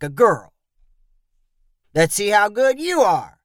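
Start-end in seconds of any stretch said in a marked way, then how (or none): 1.9-3.4 mildly demanding challenge. A narrator's reading. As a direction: push him to prove himself. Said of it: "said to Junie in a demanding voice".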